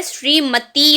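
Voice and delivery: श्रीमती slowed, ending on a long "tee"; slow model of श्रीमती, stretching the final I; correct long I. Shown as a demonstration. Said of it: "बड़ी की मात्रा आएगी".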